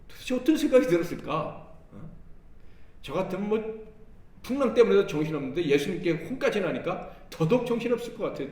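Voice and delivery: ordinary talk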